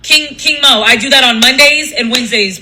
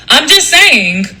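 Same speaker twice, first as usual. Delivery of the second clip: a hint of a cartoon show-off, pitched up a little; Johnny Bravo voice; 3 semitones higher, slower than usual. Comic talking to live viewers, lightly hammed-up voice. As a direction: lightly play up the catchphrase delivery. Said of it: "Johnny Bravo voice".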